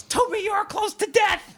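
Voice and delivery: high, frantic mock shout; movie-quote yell. Host quoting a dad at his noisy kid, high yell. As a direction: yell it like a dad driven mad by noise. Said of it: "and he yells".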